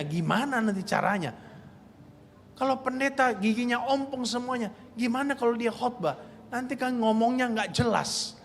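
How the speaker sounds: a retold lament, understated; crying to God. Young missionary complaining to God about his teeth, soft plaintive. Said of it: "dia nangis".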